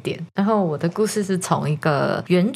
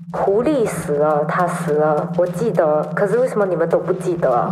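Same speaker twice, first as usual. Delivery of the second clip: muttering runner. Acted. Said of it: "他就在那边念讲".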